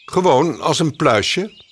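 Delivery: a hint of a know-it-all bird; Gniffel answering. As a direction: explain as if it's obvious. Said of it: "antwoordde Gniffel".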